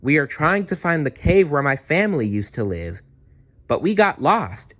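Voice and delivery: put-on high, pleading young voice; little Dazzle. Dazzle tells the apatosaurus they are lost, high and pleading. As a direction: explain sheepishly that you got lost.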